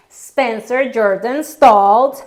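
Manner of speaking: "Spencer Jordan Stoltz" drawn out slowly and a bit loud; a nervous bride slowly names her groom; slow, careful name. Retold or imitated. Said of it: "Then it was my turn".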